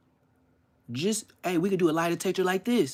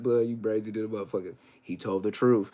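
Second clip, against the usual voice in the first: low, deadpan verdict; mock lie detector verdict; 5 semitones lower than usual. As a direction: announce it coolly like an examiner. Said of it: "I'm gonna be just like this".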